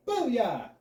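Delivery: loud, high whoop; thrilled teacher yelling booyah; excited cheer. Acted. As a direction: celebrate like a touchdown.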